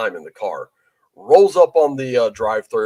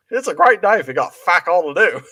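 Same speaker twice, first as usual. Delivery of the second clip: put-on Australian accent; 4 semitones higher than usual. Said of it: "imitate his accent".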